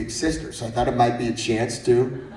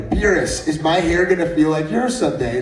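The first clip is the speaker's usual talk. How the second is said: imitating a little kid; 4 semitones higher, 5 dB louder than usual. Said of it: "then he felt my hair".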